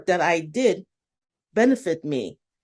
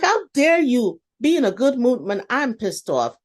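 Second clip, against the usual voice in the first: mock indignation; 5 semitones higher than usual. Younger self fuming at someone smiling, hammed-up high indignation. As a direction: play up the old petty fury for laughs.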